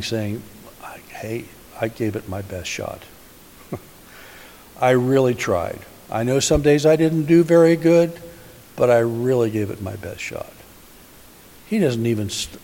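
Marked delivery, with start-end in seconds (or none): 1.1-10.5 lightly hammed-up whiny excuse; mock whining. Preacher imagining his own excuse to Jesus, mock whining. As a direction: plead your case with a mock whine. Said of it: "I'd probably be whining".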